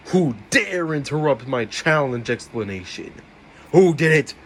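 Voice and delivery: loud, sharp demand to know who did it; angry demand. Acted. Host shouting at the suspects to own up. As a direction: bark it out at the room.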